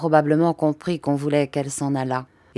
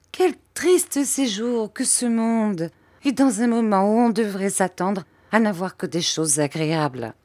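capricious irritation; 4 semitones higher than usual. Acted. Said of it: "avec une irritation capricieuse".

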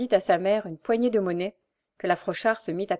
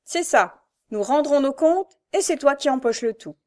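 bitter reproach; 6 semitones higher, 3 dB louder than usual. A narrator's reading. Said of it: "il ne put s'empêcher de lui dire".

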